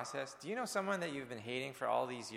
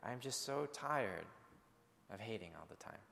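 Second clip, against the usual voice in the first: breaking down; 2 semitones lower, 6 dB quieter than usual. Retold or imitated. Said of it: "she just began to break down".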